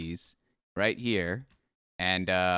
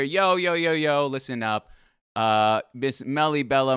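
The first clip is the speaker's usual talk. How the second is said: loud hyped-up promo voice; wrestling promo; 3 semitones higher, 3 dB louder than usual. Acted. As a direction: hype it up like a wrestler on the mic. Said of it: "Let's cut a promo right now".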